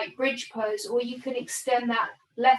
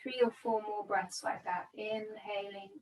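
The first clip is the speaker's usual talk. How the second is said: calm, unhurried meditation guidance with long pauses; measured yoga-teacher breathing cues; guided meditation. Real, not acted. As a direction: guide them gently into body and breath, leaving space between phrases. Guides breath and body awareness.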